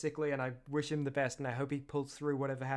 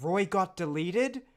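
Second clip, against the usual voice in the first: horrified; 3 semitones higher, 4 dB louder, slower than usual. Shown as a demonstration. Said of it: "full seriousness, horrified".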